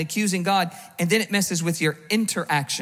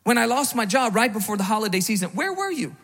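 accusing God. Retold or imitated. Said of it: "And we ask him".

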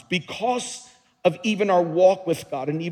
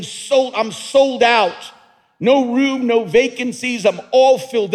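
louder, higher jubilant worship cry; imitating exuberant worshippers, pitched up; mock joyful praise; 5 semitones higher, 6 dB louder than usual. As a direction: voice the happy praisers, bright and big. Mimicking worshippers praising God.

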